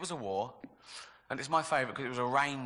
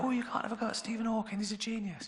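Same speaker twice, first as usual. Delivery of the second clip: imitating a scolding woman; 9 semitones higher, faster than usual. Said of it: "She'll go".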